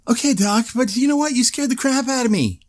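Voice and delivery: high, half-laughing complaint; exasperated. Retold or imitated. Patient scolding the doctor, high and exasperated. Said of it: "I was like".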